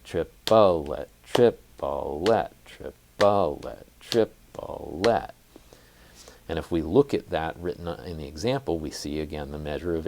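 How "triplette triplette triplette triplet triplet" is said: "Triplette" chanted louder with the accent shifted; displaced accents. Shown as a demonstration. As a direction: punch each "Triplette" hard off the beat. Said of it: "That would sound something like this".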